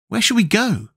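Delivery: put-on high boy's voice; Tip's boy voice. A narrator's reading. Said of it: "asked Tip".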